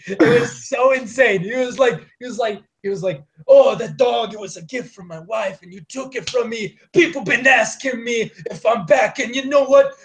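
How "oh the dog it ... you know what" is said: hammed-up movie reenactment, pitched up; John Wick. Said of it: "reenacted the entire movie of John Wick".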